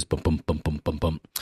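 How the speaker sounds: low, rhythmic thumping syllables; steady low heartbeat imitation; imitated heartbeat. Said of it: "it goes".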